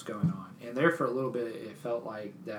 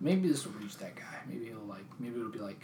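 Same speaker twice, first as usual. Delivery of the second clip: hushed musing; whispered musing; 2 semitones lower, 5 dB quieter than usual. Real, not acted. Musing to friends whether the drunk hears this, whispering. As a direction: whisper the hope.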